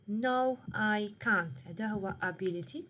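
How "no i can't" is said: slow demo. Shown as a demonstration. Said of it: "So عندي ability".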